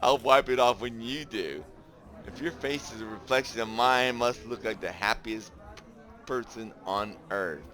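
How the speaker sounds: playful banter. Acted.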